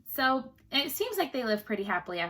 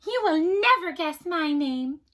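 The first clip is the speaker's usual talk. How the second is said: high, loud, laughing through it; cackling taunt; 6 semitones higher, 6 dB louder than usual. A narrator's reading. Imp taunts queen, laughing high and loud. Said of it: "he cackled".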